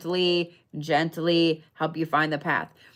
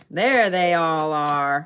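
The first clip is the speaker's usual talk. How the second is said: louder and slow, satisfied; happy slow sing-song; pleased drawn-out call; 2 semitones lower, 4 dB louder, slower than usual. Real, not acted. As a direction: announce the find with relish. Finding the Scorpio cards.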